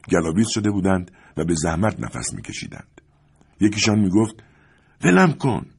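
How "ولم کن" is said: high, loud "let go" cry; desperate yell. A narrator's reading. A man grappling in the dark yells to be let go. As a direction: yell to break free of a grip.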